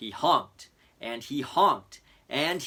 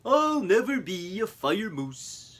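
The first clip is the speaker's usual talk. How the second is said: sad; 7 semitones higher than usual. Acted. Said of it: "he groaned".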